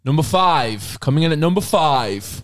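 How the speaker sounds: slow showbiz countdown voice; countdown announcer. Acted. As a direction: announce it like a chart show host.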